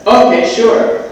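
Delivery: high, slow, loud forced agreement; a hammed-up startled yes; gulping back panic with a cheerful sure; mock eager okay. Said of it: "And I was like".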